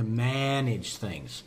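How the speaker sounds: MANAGE leaned on heavily, first syllable stretched; stress on MANAGE. Real, not acted. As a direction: lean hard on the start of "manage". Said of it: "don't you love that emphasis".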